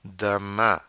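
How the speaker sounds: "Demain" ending on a nasal vowel; French "Demain" with nasal ending; silent N. Shown as a demonstration. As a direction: leave the N off "Demain". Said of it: "The N is silent".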